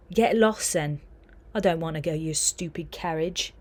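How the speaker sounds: angry retort. Acted. Remus snaps at Sev.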